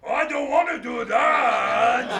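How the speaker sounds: slow, loud refusal. Acted. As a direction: dig in your heels. Refusal in play.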